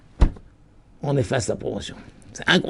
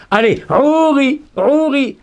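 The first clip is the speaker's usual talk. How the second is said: voice from above; 7 semitones higher, 3 dB louder, slower than usual. Acted. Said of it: "c'est la réponse du haut".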